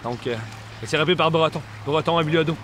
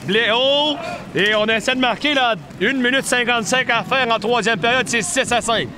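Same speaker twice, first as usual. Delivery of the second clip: excited sports commentary; 4 semitones higher than usual. Real, not acted. Late chance called live.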